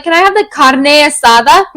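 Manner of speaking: "carne asada" with put-on Spanish sounds; Spanish pronunciation. Copying herself ordering food, "carne asada" said the Spanish way. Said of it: "I do the same thing".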